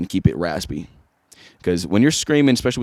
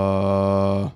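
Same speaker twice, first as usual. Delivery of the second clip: sustained voice note. Shown as a demonstration. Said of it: "That's just me".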